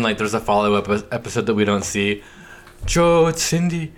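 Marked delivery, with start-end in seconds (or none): 2.8-3.9 Cindy impression. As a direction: call Joe as giddy Cindy. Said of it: "you nailed it".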